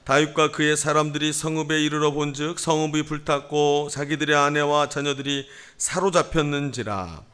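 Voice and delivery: measured, level reading voice; scripture reading. A narrator's reading. Pastor leads congregation in responsive Bible reading, measured. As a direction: read it out evenly for responsive reading.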